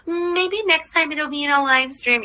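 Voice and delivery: mild sing-it-back mockery; mocking imitation. Mimics the streamer's hint.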